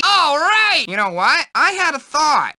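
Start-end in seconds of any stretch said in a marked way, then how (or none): 0.1-0.9 high, happy cheer. Acted. Nerd cheers a buddy, high and happy. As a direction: cheer it like a win.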